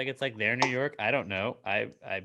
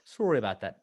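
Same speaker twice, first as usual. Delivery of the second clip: lightly imitated Canadian apology; mock-Canadian "sorry" with a rounded vowel; Canadian accent; 2 semitones lower than usual. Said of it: "What are you, a Canadian pirate?".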